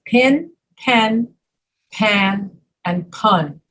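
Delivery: pin, pen, pan, pun as a careful list, each vowel different; distinct vowels. Shown as a demonstration. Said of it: "your mouth muscles will move differently".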